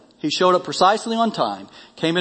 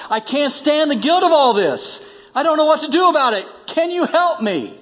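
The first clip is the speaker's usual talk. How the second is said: building higher and more anguished, slowing into the last question; rising despair that breaks into begging; desperate plea; 4 semitones higher than usual. Acted. Guilt-ridden doctor begging the pastor for help, anguished.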